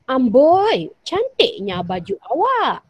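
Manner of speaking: admiring "Amboi!" with a loud fall; impressed by a friend's outfit; kagum. Shown as a demonstration. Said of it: "kita hairan ataupun kagum". (kagum, "Amboi" ditekan kuat)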